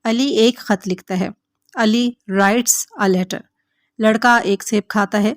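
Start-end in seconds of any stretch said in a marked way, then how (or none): 1.7-3.4 slow model sentence. Shown as a demonstration. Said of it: "teacher models an English sentence".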